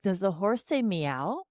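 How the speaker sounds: slow absurd question. Shown as a demonstration. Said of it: "I'll be like".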